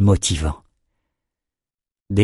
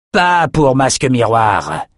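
defiant; 3 semitones higher, slower than usual. Acted. Veteran defies the rebels mid-battle.

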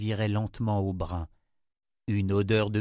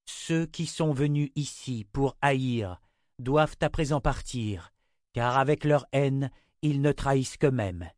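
citation solennelle; 4 semitones higher than usual. A narrator's reading. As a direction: recite the warning deliberately, phrase by phrase. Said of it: "Vous voulez savoir ce qu'il dit?". (citation solennelle, lente et détachée)

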